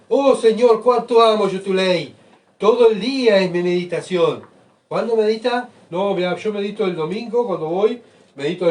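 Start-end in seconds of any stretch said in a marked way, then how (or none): 0.1-4.4 loud, higher cry of devotion; shouting. Shown as a demonstration. Psalmist crying out his love for God's law, loud shout. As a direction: call it out to the Lord at full voice. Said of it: "pero gritando".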